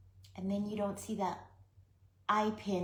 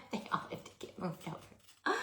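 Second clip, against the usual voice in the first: laughing. Real, not acted. Repeat with laugh.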